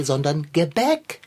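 Gebäck stressed, rising at end. Shown as a demonstration. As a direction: lean on sondern Gebäck. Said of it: "keine Koffer zum Tee".

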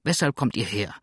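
cross, starts high then settles; vexed landlady's demand; really annoyed. Acted. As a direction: curse the caller in annoyance. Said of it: "jetzt wirklich ärgerlich".

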